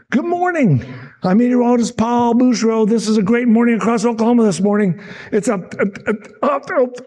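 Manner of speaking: high, bright broadcast voice; mock cheerful weather anchor greeting; cheery weatherman intro. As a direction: sell the forecast like a chipper TV host. Anchor's cheery recorded forecast intro.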